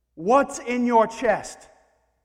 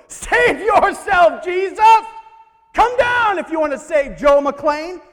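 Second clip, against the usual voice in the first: loud, much higher jeering shout, dragged out slowly; mocking crowd; 9 semitones higher, 10 dB louder, slower than usual. The crowd taunting Jesus on the cross, loud high jeering shout. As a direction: jeer up at him from the foot of the cross. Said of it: "As we stand at the foot and go".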